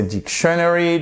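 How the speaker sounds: dictionary with the stress off the first syllable, pitched high; misplaced stress. Shown as a demonstration. Teacher testing learners on where the accent falls, misplaced stress. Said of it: "c'est sur la première syllabe".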